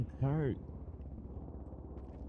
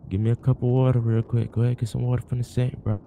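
urgent, much louder instruction; loud orders; 10 dB louder than usual. Pretend. Friend demanding water for the passed-out man, loud and urgent. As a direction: call out orders to revive him.

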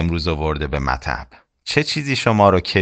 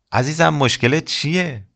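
higher, gentle doctor asking a patient; kind doctor; 5 semitones higher than usual. Acted. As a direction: coax it like a caring doctor.

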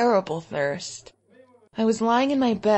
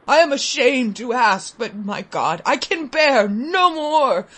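shaking plea; 2 semitones higher than usual. Acted. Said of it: "in a hollow, shaking voice".

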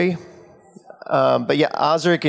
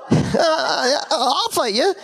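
Osric accepting; 11 semitones higher, much slower than usual. Retold or imitated. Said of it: "he was like".

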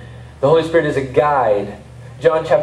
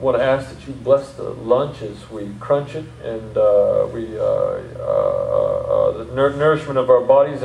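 put-on southern accent; 2 semitones lower than usual. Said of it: "in my southern accent".

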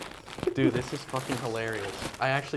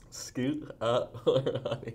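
very slow, slurred past a guard; mouth guard speech; much slower than usual. Real, not acted. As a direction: push it out round a guard.

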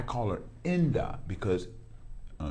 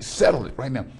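louder, higher game-show hype; hyped challenge; 4 semitones higher, 3 dB louder than usual. Real, not acted. Host challenging his guest to settle the rap debate, hyped. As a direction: build it up like a big showdown. Host hyping the big question.

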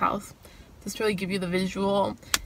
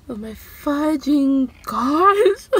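flustered; 6 semitones higher, 4 dB louder, much slower than usual. Real, not acted. Flustered outburst, very slow.

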